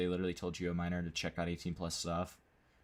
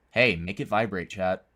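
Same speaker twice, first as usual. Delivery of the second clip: calling out to chat; 7 dB louder than usual. Real, not acted.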